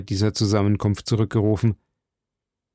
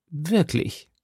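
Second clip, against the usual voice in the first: slightly uneasy question, pitched up; a touch of disquiet, held back; Unruhe; 4 semitones higher, 4 dB quieter than usual. A narrator's reading. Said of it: "versetzte Milady mit Unruhe". (leicht beunruhigt gefragt)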